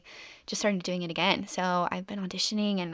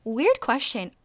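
mock stranger on train; 5 semitones higher, much slower than usual. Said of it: "some girl was like".

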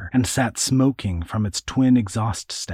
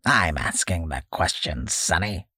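put-on cackling old man; 2 semitones lower than usual. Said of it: "cackled the old leather bag man".

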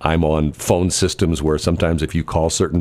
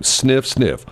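sniffing the air; 6 semitones higher than usual. Shown as a demonstration. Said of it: "I'll read you one of the lines".

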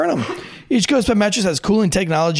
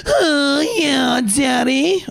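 glitchy giggling ghost whisper; 10 semitones higher, much slower than usual. Acted. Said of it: "How many times is he gonna do that?".

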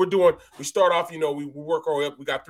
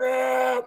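lifting grunt; 6 semitones higher than usual. Retold or imitated.

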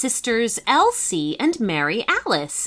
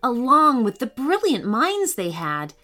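put-on lively storybook reading for kids; story narration. A narrator's reading. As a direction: read it like a bedtime adventure.

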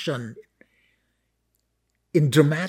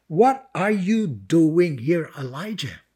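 measured divine question; slower than usual. Acted. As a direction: ask it deliberately, letting the name fall away. God's question read, then repeated.

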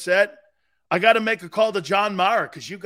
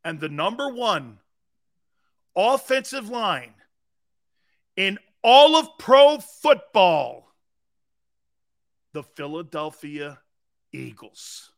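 sarcastic reveal; 5 dB louder than usual. Acted. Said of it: "Still sarcasm is on a hundred".

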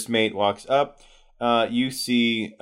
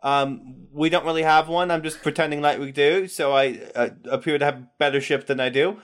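a bit higher, quicker captain voice; captain bluffing; 6 semitones higher than usual. Acted. The wounded captain pretending to have a grand ship, lightly higher and quick. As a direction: fake confidence, talking fast. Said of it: "the captain says".

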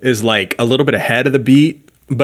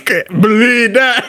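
laughing; 12 semitones higher, 3 dB louder, slower than usual. Real, not acted. Laughing at plug clip.

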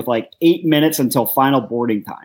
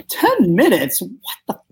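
retold disbelief, first word pitched up; incredulous; 5 semitones higher than usual. Passenger told his ride is ten minutes away, incredulous. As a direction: react in mock disbelief to the wait.

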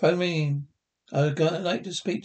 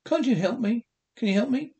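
desperate plea; 6 semitones higher than usual. Acted.

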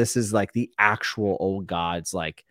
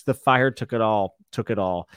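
crying; 2 semitones higher than usual. Acted. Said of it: "Davos cried".

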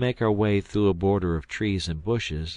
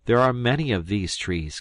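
excited; 3 semitones higher, 4 dB louder than usual. Acted. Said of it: "continued he".

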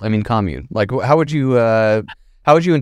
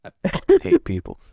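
echoing the soundbite; 4 semitones higher than usual. Retold or imitated. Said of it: "for that sound drop".

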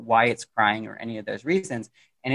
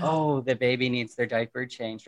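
quiet amused inner voice; 5 dB quieter than usual. Retold or imitated. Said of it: "where you go".

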